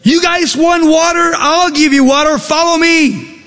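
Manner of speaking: high, sharp mock yelling at a crowd; mock angry yell. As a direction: bark it out like a fed-up leader. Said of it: "he starts yelling at the people".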